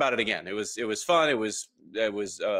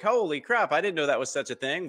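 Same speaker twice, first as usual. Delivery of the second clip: amazed commenters; 6 semitones higher than usual. Retold or imitated. Acting out amazed LinkedIn commenters.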